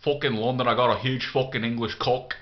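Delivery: lightly put-on London Cockney; casual Cockney imitation; mock Cockney accent. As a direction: poke fun with a Cockney accent. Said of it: "you've got the fucking Cockney".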